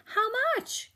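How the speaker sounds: high, insistent repeat; teenager asking again. Acted. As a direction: ask again, a bit pushy.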